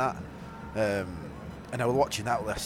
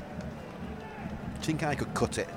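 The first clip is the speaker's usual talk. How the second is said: whispered; 7 dB quieter, much slower than usual. Acted. Trying out posh voice.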